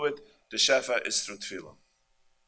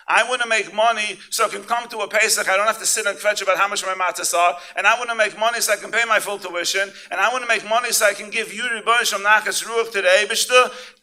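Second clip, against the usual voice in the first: Shimon praying; 9 semitones higher, 8 dB louder than usual. Acted. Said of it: "Shimon tells the Eibishter".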